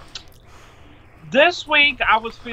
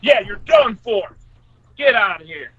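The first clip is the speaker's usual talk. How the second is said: angry trash talk; 5 dB louder than usual. Real, not acted. Yelling at the fly.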